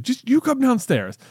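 put-on high childish plea; imitating a small boy. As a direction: beg like a little kid. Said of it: "he's like".

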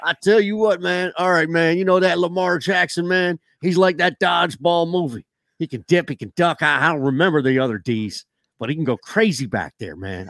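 Gruden-style folksy twang. Acted. Coach quoted on Lamar Jackson, full twang. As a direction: lay on a twangy coach impression. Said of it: "I want the full twang".

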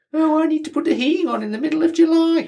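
high, prissy southern voice; mock southern accent. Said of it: "What accent is that?".

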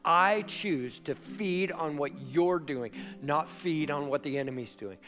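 a believer praying, gentle and earnest; sincere prayer. Shown as a demonstration. Voicing a prayer.

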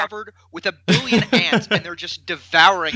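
talking through laughter; words broken up by real laughter; laughing. Real, not acted. Laughing while telling funny story.

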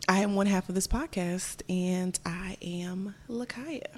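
slow soft ASMR whisper. Acted. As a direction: breathe it close and slow. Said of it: "Why are you whispering".

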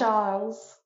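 Charles said the French way, "Sharl"; French pronunciation. Shown as a demonstration. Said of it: "you say Charles so nicely".

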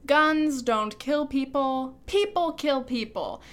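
slow, drawn-out sneering recital of the slogan; mock the pro-gun catchphrase slowly. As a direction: drag out "Guns don't kill people" with contempt.

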